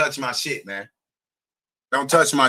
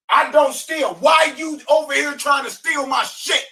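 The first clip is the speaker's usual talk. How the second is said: higher, sharp indignant shout; real anger; 4 semitones higher than usual. Real, not acted. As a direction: demand an answer, offended. Furious rant about truck break-in.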